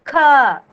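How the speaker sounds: Kha said with a clear breathy burst after the k; aspirated kha. Shown as a demonstration. Teacher repeating the aspirated Kha for pupils. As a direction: let the air burst out on Kha. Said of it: "Kha sound should come out of your mouth".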